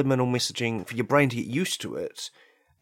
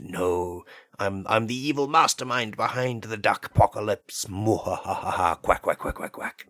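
lightly voiced villain duck, slightly lowered; evil talking duck; 2 semitones lower than usual. Evil duck threatens human listeners, hammy gloating villain. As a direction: play a gloating duck mastermind with mock evil laughs.

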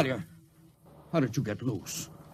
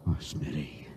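much lower and softer grief; grieving; 14 semitones lower, 8 dB quieter than usual. Acted. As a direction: mourn a dead friend quietly. Captain mourns his friend.

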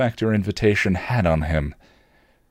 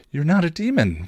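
smiling affirmation; 9 semitones higher than usual. A narrator's reading. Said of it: "Willow affirmed, smiling".

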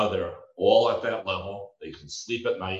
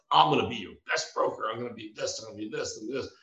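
cocky; 4 semitones higher than usual. Retold or imitated. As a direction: imitate an eager, cocky rookie pitching himself. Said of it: "I was this cocky".

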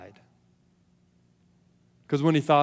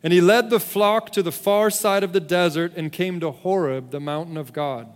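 measured, solemn Bible reading with deliberate pauses; scripture reading. A narrator's reading. Preacher reads Moses and the burning bush to the congregation, measured scripture reading. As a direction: read the passage out to a congregation, letting phrases settle.

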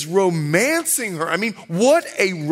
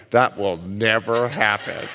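mock laughing wife; 10 semitones lower than usual. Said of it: "wives are laughing like".

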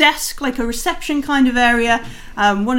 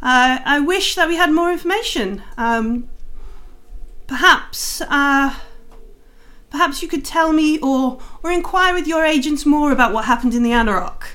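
Lady Silverhand; 2 semitones higher than usual. Acted. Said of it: "you can hear her saying".

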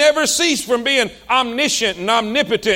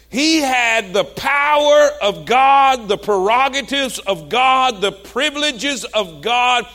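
1 proclaiming. Acted. Preacher building to climax.

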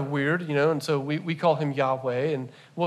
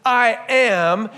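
voicing God; 6 semitones higher, 7 dB louder than usual. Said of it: "he says".

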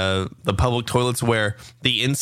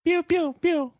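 very high pew pew laser noises; game blaster sound; slower than usual. Retold or imitated. Imitating the dude from that game, very high laser pews. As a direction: fire off tiny laser blasts. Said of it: "I did that exactly like the dude from that game".

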